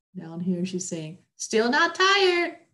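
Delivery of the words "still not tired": very high, shrill, high-pitched yell. Lucy, playing pretend, calls out, shouting. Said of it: "Lucy shouted moments later".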